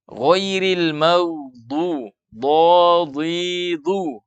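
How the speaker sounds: slow recited GHAIRIL MAGHDU, DHADHIDU with heavy consonants; dha tebal. Shown as a demonstration. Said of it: "terangkat pangkal lidah juga". (DHADHIDU dibaca tebal dan panjang)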